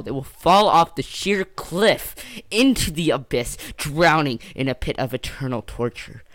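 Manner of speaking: mock-epic catastrophe; melodramatic doom warning. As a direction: build the imitated warning into overblown doom. Acting Bradley's overblown warning.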